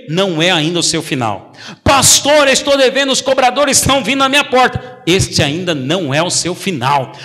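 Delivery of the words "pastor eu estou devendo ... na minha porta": higher, pleading complaint to the pastor; a hint of a distressed member; worried church member. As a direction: play the anxious believer.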